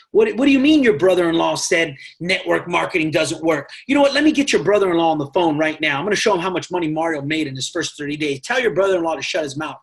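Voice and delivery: hammed-up angry phone rant; mock indignant rant. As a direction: rattle it off like a fed-up recruiter. Acted rant at a prospect.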